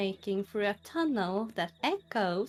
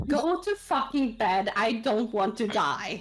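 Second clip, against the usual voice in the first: loud, drawn-out, furious acted yell; 5 dB louder than usual. Voicing a companion who tells another player to go to bed: yelling in character. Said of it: "Why are you yelling?".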